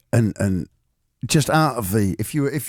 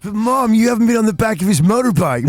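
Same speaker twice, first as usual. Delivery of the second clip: put-on whiny teen; 6 semitones higher, 5 dB louder than usual. Voicing daughter arguing with mom.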